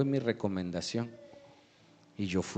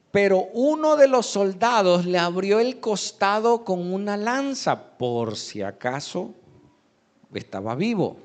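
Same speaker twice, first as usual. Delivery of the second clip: scripture reading; 6 semitones higher, 5 dB louder than usual. Real, not acted. Reads scripture aloud to congregation.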